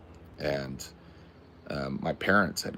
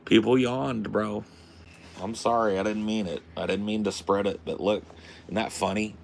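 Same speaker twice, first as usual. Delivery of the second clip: excited; 4 semitones higher than usual. Real, not acted. Delighted at spreading yawns.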